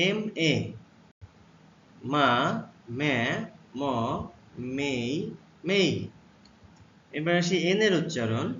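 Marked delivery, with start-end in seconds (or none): 2.1-5.9 মা, মে, ম, মেই said one by one, slow and clear; teacher modelling মা মে ম মেই; letter sounds demo. Shown as a demonstration. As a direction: model মা মে ম মেই with a pause after each. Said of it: "এম এর উচ্চারণ".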